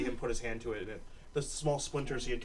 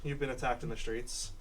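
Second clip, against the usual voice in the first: official woman. Acted. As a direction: lay out the meeting calmly as the boss.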